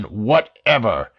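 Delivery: "whatever" drawn out slow and weighted; slow emphatic "whatever"; word stressed. A narrator's reading. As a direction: lean hard on "whatever". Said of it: "he said the word with emphasis".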